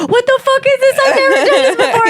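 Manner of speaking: high imitation of a panicking driver, half laughing; mock panic. Imitating a friend who never did a roundabout, mock panic. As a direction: play the frantic first-timer at the wheel.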